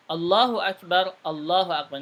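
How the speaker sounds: "Allahu akbar" with a mistaken vowel; demonstrating the mistake in "Allahu akbar"; "Allahu akbar" said the wrong way; wrong pronunciation. Shown as a demonstration. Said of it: "Ini kalau salah seperti ini".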